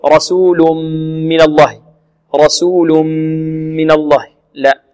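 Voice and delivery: رسول من الله with lips clamped hard on the م; pressed lips mistake. Shown as a demonstration. Teacher imitating students' lip pressing.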